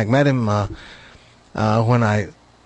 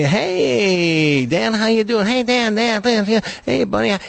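put-on higher, hearty hail to an old pal; greeter calling out; 8 semitones higher than usual. Man who knows everybody, hailing a pal. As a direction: call out like everyone's best friend.

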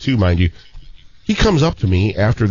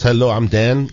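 put-on French Canadian accent; 3 semitones higher than usual. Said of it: "he talks a little accent like this".

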